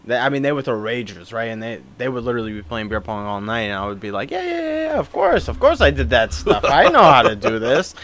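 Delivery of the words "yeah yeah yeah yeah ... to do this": hammed-up eager assurance, starting high; mock bluffing. Teen claiming he can play beer pong, mock bluffing. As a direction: bluff breezily, overdoing the certainty.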